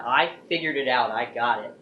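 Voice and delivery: lightly triumphant, with a smile; retold happy realization. Grandpa smiles at mom as he catches on, retold happily. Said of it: "He smiled and he went".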